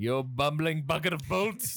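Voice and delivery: a light, hammed-up Lost in Space villain shout; a hint of a fussy British-ish Dr Smith scolding; Dr Smith impression. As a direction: toss out a mock snooty insult to the robot. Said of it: "that's a fucking fake accent too".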